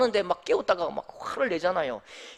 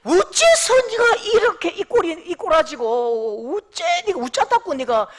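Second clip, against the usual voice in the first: Daegu dialect; 6 semitones higher, 6 dB louder than usual. Shown as a demonstration. Preacher as Jesus rebuking disciples, Daegu dialect scolding. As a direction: scold in broad Daegu accent, easing gradually. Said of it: "대구가 대한민국의 수도입니다".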